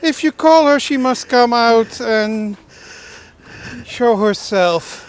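loud, slow, drawn-out call; mock summons. Telling a friend how to summon the fairy, loud and slow. Calling to fairy tale figure.

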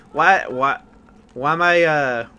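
stumbling restarts with halting pauses; flustered. Real, not acted. Player failing to explain his attachment, flustered. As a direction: grope for words and give up. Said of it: "I'm just really flustered".

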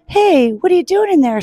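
high-pitched surprised call; animated storybook holler. A narrator's reading. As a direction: call down to a friend in the bin. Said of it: "Sock called".

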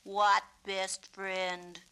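slow, sneering bully; jeering. Acted. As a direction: drag it out mockingly. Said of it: "Jeered Butch".

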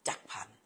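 two syllables in จักรพันธ์, dropping the "kra"; อ่านสองพยางค์. Shown as a demonstration. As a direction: shorten จักรพันธ์ to jak-phan. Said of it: "ไม่อยากให้เหมือนคนอื่น ก็เลยชื่อ". (อ่าน จักรพันธ์ ว่า จัก-พัน)

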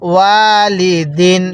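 ওয়ালিদিন with ওয়া stretched, slow; drawn-out ওয়া. Shown as a demonstration. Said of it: "ওয়াওয়ের মধ্যে টান দিবেন". (ওয়ালিদিন, ওয়া টেনে ধীরে)

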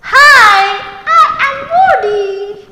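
high, bright-eyed little bird introducing itself; bird character voice. Acted.

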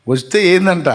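God snapping back at a believer's excuses; challenging retort. Acted. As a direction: fire the question back at him.

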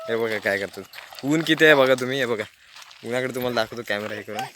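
ordinary talk, nothing marked

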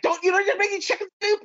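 high, mock-voiced quote; quoted remark. Retelling a friend's remark, voiced high and lightly mocking.

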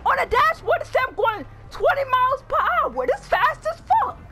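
indignant grandma. Acted. Grandma indignant at her grandson in the car. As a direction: pitch up high and defend yourself.

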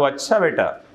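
a hint of mocking sarcasm, laughing; sarcastic. Teacher imitating a sarcastic reply to a compliment, with a light laugh. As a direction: lightly scoff it with a chuckle. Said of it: "sarcasm दे रहा है".

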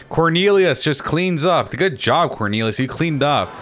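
high, drawn-out mock congratulations; mock-impressed singsong; sarcastic praise. Real, not acted. Sarcastic praise after being killed.

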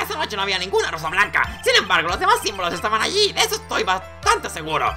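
voz de testigo con saltos al agudo; lightly voiced earnest witness; testigo convencido. Testigo vuelve a declarar. (testigo convencido, con leves gallos)

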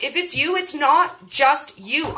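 slow gentle reassurance; reassuring. Real, not acted. To the listeners who feel alone, slow and reassuring. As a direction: promise them gently.

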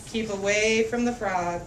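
lively picture-book read-aloud; reading to children. A narrator's reading. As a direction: read it out for a room of little kids. Reads picture book to kids.

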